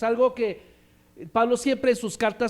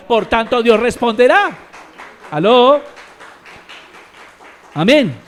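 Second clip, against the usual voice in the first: full-force preaching; 8 dB louder than usual. Acted. Pastor urging the church to pray, preaching loudly. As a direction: preach it out loud to the congregation.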